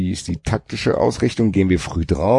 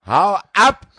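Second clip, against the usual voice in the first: mock shout; 12 semitones higher, 5 dB louder than usual. Joking retort among friends.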